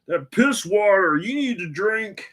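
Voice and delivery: high-pitched mock Scottish buddy; hammed-up Scottish voice; Scottish accent. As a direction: scoff in a put-on Scottish accent. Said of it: "this is my Scottish accent".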